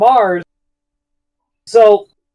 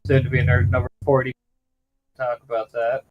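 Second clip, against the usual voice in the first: audio cutting out; 8 semitones lower, 8 dB quieter, faster than usual. Real, not acted. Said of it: "the mic is cutting".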